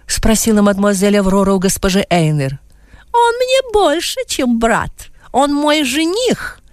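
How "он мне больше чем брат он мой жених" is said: higher lady's voice. A narrator's reading. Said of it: "ответила госпожа Эйнер".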